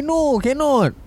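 mock Shafiq. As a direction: snap back a dismissive no. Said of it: "Shafiq say".

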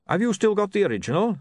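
a hint of a gruff dwarf. A narrator's reading. Dwarf asking about the original.

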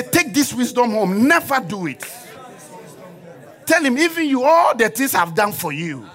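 high, driving preacher's call; impassioned preaching. Acted. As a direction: urge the congregation to repeat it.

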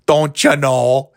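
slow, teasing Midwest "Don't you know?"; a light Upper Midwest lilt; imitating a Wisconsin local; mock Wisconsin accent. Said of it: "they all talk like this".

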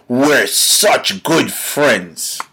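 drawn-out, very slow mocking quote. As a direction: stretch each word, punching SUCH. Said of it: "since you say".

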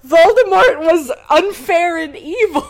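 cracking up mid-sentence; laughing. Real, not acted. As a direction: laugh while mocking the line. Mocking Harry's line, laughing.

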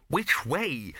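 nervous little question; quavering. A narrator's reading. Bursar asks where to run, quavering. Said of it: "quavered the bursar".

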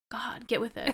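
hushed confiding whisper. Retold or imitated. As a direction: whisper it like a secret. Whispered aside in retold reply.

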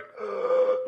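sudden gasp for air; reviving gasp. Retold or imitated. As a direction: gasp as life rushes back in. Acts out breath returning.

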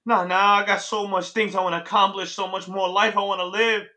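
urgent mock begging; begging for life. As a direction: plead with Death, retold. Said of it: "started begging for my life".

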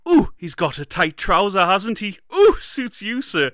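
high, loud sketch-show tailor; hammed-up comic tailor, pitched well up; catchphrase impression. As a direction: whoop each "ooh" high and loud. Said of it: "and they're like".

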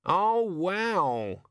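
raven overjoyed; excited raven. Acted. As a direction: raven gasping at the sheep. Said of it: "said the raven".

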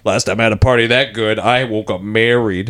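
a hint of the old bus driver, slowed down; bus driver line. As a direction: deliver it like a gruff old-timer's joke. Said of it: "the bus driver delivers the".

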